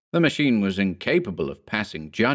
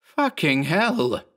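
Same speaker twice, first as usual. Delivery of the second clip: high, drawn-out yell; slow high-pitched swearing; yelled curse; 9 semitones higher, slower than usual. A narrator's reading. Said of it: "he yelled".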